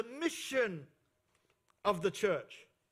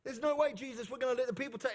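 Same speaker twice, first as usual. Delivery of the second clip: incredulous Peter; 3 semitones higher, faster than usual. Retold or imitated. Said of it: "This is the Adam International version".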